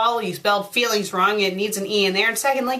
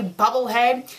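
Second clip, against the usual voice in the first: ordinary talk, nothing marked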